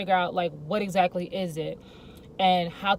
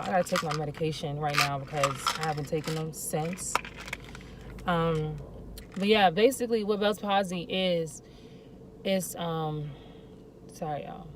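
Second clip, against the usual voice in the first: talking through a sore jaw; jaw pain. Real, not acted. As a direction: speak carefully through mouth pain. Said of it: "My jaw is killing me".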